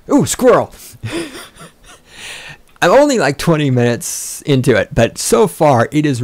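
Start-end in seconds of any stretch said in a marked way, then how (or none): 0.1-0.7 sudden high, loud "Ooh, squirrel!" like a distracted dog; mock distraction. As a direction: yelp it as if something shiny caught your eye. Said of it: "that was me getting distracted".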